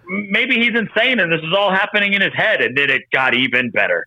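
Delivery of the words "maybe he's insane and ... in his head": mock musing. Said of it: "they were just like".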